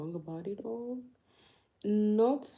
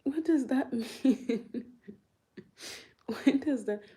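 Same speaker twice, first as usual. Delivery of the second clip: baffled; 6 semitones higher, 5 dB louder than usual. Real, not acted. Baffled by a viewer's chat.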